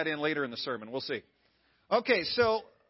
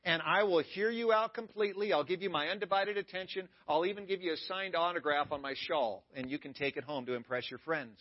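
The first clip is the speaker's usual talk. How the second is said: mock accommodating. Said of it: "Jesus didn't say".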